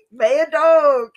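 high, loud mock yelling of mad dog, laughing; hammed-up shout at the dog. Quoting the movie hero shouting at a rabid dog, mock yell.

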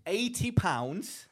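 drawn out slowly for effect; slow reveal. Real, not acted. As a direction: let each word land slowly. Reveals price to friend.

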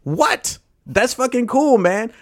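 high, loud burst of delight; excited. Real, not acted. Podcast host hears guest's name pronounced, excited. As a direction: react with real excitement, pitch jumping up. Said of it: "I get really excited".

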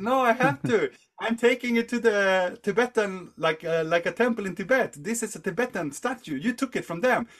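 high-pitched acted self-defence; impassioned protest. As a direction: argue your case, voice pushed up high.

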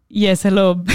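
lightly imitated Nigerian-accented scammer. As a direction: answer the phone in a mock Nigerian accent. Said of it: "I love his British accent".

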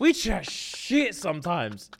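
drawn-out laughing line; slow laughing. Real, not acted. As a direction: laugh through it slowly.

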